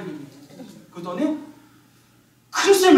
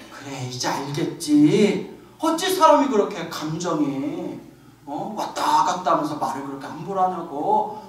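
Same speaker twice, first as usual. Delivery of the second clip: a hint of a stern old monk; 4 semitones lower than usual. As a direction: settle down and lecture like an elder monk. Monk calms and instructs.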